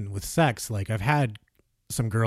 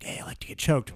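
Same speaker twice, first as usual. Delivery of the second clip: whispered, soft seductive voice; sexy voice; 7 dB quieter than usual. Pretend. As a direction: purr it in a hushed sexy whisper. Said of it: "a sexy voice".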